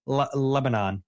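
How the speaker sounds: halting Lebanon with a full "non"; Lebanon ending in -non. Shown as a demonstration. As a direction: stumble into LEB-uh-non for Lebanon. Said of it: "I didn't even realize that I said".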